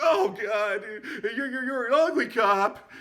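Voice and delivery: high, loud shriek; shrieking gang leader. Retold or imitated. Zed shrieking an insult at the cop. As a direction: yell the insult in a squeal.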